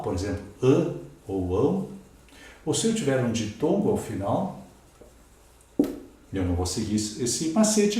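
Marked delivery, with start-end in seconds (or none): 0.6-1.9 Ã and ÃO said through the nose; nasalised vowel in "ã", nasal glide in "ão"; nasal sounds. Shown as a demonstration. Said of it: "se o som for nasal".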